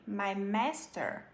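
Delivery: "my master" met gesloten m-lippen; closed M. Shown as a demonstration. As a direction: sluit de lippen op "my". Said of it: "fechando esse M".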